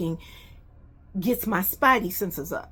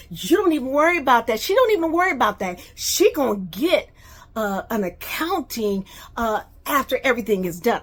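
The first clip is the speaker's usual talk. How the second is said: mocking Kim; 3 semitones higher, 4 dB louder, faster than usual. Retold quarrel, Kim's words mocked.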